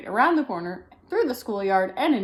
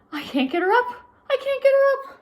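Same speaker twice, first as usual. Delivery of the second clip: desperate mother; 5 dB louder than usual. Acted. Mother despairing.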